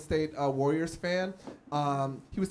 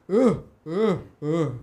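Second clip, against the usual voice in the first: urgent grunts; 3 semitones lower, 5 dB louder than usual. Retold or imitated. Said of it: "he does this hand motion".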